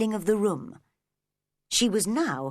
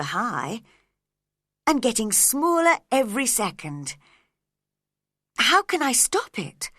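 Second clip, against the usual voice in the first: rising alarm; 3 semitones higher than usual. Acted. Alice shrinking in alarm.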